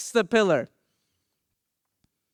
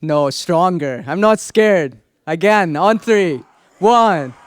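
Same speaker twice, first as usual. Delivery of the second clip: urging the crowd; 3 semitones lower than usual. Real, not acted. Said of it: "Give me a roar".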